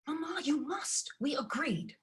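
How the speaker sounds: urgent whisper; whispered urging. Acted. Daughter whispers to mother so Ella won't hear. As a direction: hiss it so Ella can't hear.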